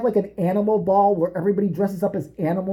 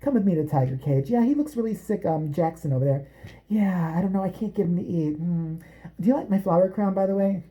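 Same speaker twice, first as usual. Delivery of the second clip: sweet-talking Carole; 2 semitones lower, 3 dB quieter than usual. Retold or imitated. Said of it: "woke up and was like".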